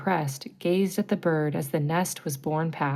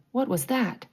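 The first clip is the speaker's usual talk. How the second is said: startled; 7 semitones higher than usual. Acted. Startled pirate hears a noise.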